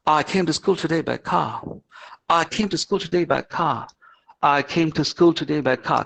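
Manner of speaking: light British accent, car ending open. Shown as a demonstration. English teacher showing how Britishers say it, British accent. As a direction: put on a slight British accent. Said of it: "so the Britishers will say".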